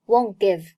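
"won't give" said like "won-give"; linked, dropped t. Shown as a demonstration. Teacher shows 连在一起, "won't give" run together. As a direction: leave the t of "won't" unreleased. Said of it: "Won't和give连在一起".

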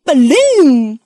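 high, loud parrot repeating a word. Acted. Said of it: "cries Polly".

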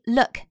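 "look" with a short, punchy U sound; short, forceful vowel. Shown as a demonstration. Teacher drills the short U, "look" short and forceful. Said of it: "一定要短促有力".

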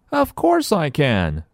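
put-on high, slow, bright-eyed child voice; high-pitched young heroine; eager little girl. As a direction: play an excited girl agreeing eagerly. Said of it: "says Nellie".

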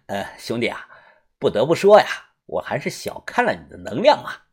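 a soft breathy laugh, then quiet rueful words; wry laugh. Acted. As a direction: laugh at yourself, beaten. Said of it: "李康阳才苦笑地说".

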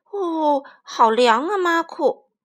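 loud startled cry at the cold; surprised child. Acted. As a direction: squeal at icy water. Child touching cold water.

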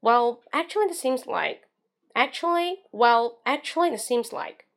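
slow, drawn-out "Well, actually" while thinking; buy a few seconds, trailing off hesitantly; stalling filler. Shown as a demonstration. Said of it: "那这些都是". (拖长语气假装思考)

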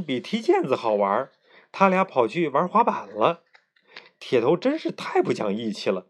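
lively bedtime story reading; story narration. A narrator's reading. Parent reading a children's story aloud at bedtime, lively narration. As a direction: read it like a diary story for a child.

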